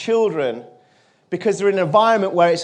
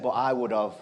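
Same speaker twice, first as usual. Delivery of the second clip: low, earnest reply; soft-spoken retold confession; quiet sincerity; 7 semitones lower, 6 dB quieter than usual. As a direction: answer gently but honestly, pitched down. Boy earnestly repeats his answer.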